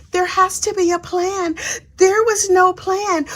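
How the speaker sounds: imitating a sugary testimony; innocent girl voice. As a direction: play the coy innocent defendant. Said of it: "I'm gonna use my softest, innocent girl voice".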